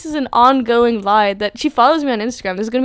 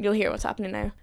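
whisper; 6 dB quieter than usual. Real, not acted. Teasing whispered aside.

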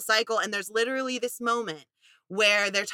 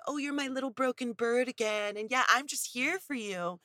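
mock doting boyfriend; 3 semitones higher, 5 dB quieter than usual. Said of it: "he loves 'cause he feels like".

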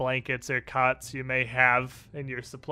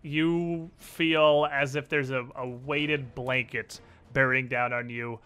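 game master narration. Acted. GM describes the scene.

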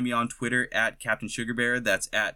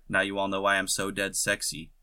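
sarcastic; 2 semitones lower than usual. Acted. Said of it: "he said sarcastically".

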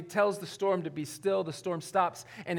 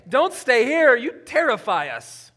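fearful crowd; 5 semitones higher, 7 dB louder than usual. Retold or imitated. Townspeople sending Jesus away.

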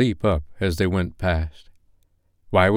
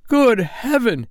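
much higher, slow amazed gasp of wonder; drawn-out exclamation of wonder; astonished old man; 4 dB louder, slower than usual. Acted. Scrooge amazed at his old home.

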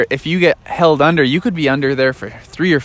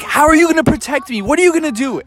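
higher, quick anxious frog voice; worried frog; 11 semitones higher, faster than usual. Acted. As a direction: frog doubting his friend's protection. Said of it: "Froggy's like".

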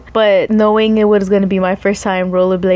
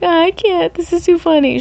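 laughing friend; 10 semitones higher than usual. Retold or imitated. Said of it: "Susanna was cracking up".

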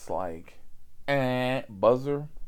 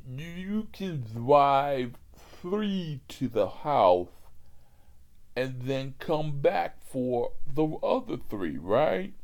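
put-on slow drunk voice; 4 semitones higher, slower than usual. Drunk customer proposes plan.

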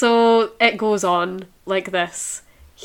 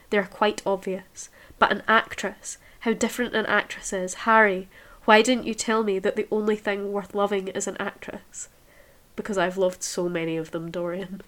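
measured reading-aloud voice; story reading; 3 dB quieter, faster than usual. A narrator's reading. Reader voicing Dorian and Harry, measured reading aloud. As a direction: read the novel passage evenly aloud.

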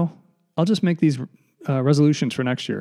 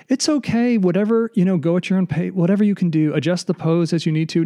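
mock yoga teacher; 5 semitones higher than usual. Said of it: "we're all pretending like".

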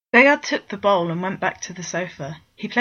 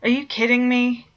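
annoyed outburst; 6 semitones higher, 5 dB louder than usual. Acted. Coffee spilled over Bord's hand.

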